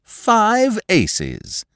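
bright high triumph; cheerful. A narrator's reading. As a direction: crow over the winning hand. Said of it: "said Lord Peter cheerfully".

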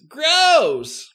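high, grossed-out yelp; disgusted. A narrator's reading. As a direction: spit out the disgust. Katie disgusted at monster.

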